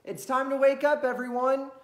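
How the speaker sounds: high, loud rooster voice; a rooster waking the farm; rooster calling. Acted. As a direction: announce the morning like a rooster. Rooster calls the farm awake.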